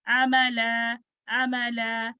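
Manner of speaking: अमला with quick short opening vowels. Shown as a demonstration. Teacher models the right reading, short-vowelled अमला. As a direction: keep the first vowels of अमला brief. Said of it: "short vowel".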